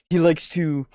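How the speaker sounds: slow, drawn-out words savoured one by one; relishing NPC voice. Shown as a demonstration. Player demonstrates rogue faction leader's way of talking, slow and relishing. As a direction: take your time, enjoying every enunciated word. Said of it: "made the voice as it went".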